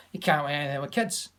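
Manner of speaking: light Scottish pundit voice; a mild Scottish pundit impression, words run together; Alan Hansen Scottish. Teacher imitating a TV football pundit in a light Scottish accent. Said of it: "Example, Alan Hansen".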